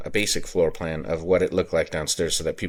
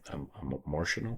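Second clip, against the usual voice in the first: surprised at himself; 4 semitones lower, 13 dB quieter than usual. Real, not acted. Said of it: "way more emotional about it".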